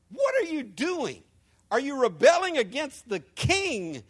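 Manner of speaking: mild scoffing. Acted. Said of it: "they scoffed contemptuously".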